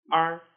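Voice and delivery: "R" cut short, with no glide; a brief, unstressed "R"; neutral tone. Shown as a demonstration. Teacher models finals, short "R". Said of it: "with the five tones".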